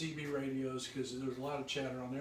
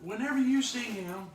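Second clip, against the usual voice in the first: raised, louder eager voice; eager trucker; 7 semitones higher, 8 dB louder than usual. Retold or imitated. Trucker telling the band to greet Tim, excited and loud. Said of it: "He goes".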